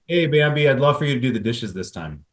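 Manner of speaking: cheery loud Hey Bambi, then the ask. Pretend. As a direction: call across the room brightly. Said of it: "I would say".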